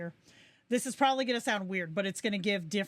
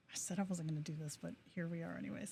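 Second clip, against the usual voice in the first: muttering; 3 semitones lower, 10 dB quieter, much faster than usual. Real, not acted. Repeats aside, muttered under breath.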